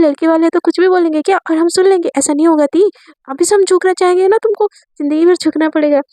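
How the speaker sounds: put-on stubborn girl refusing to back down; defiant younger sister. Divya argues with her sister about the groom's family, defiant.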